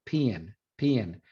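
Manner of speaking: Texas pin with a gliding vowel; merged Southern vowel in pin; pin-pen merger. Shown as a demonstration. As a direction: stretch pin into two sounds, pee-in. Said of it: "pin, pen merger".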